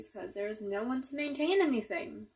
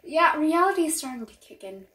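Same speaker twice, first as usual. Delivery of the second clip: rising panic; 6 semitones higher, 9 dB louder than usual. Acted. Panic at the realisation.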